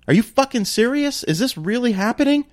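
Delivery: high-pitched furious disbelief; retelling how she blew up in the car; outraged disbelief. Retold or imitated. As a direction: let the outrage climb up high. Angry retort in car.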